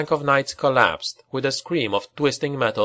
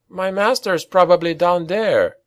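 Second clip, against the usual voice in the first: higher raised call over the din; urgent cry; 6 semitones higher than usual. Acted. Rat Boy shouting to the Baron over the din, raised cry. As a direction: strain to be heard over battle. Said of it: "cried Rat Boy".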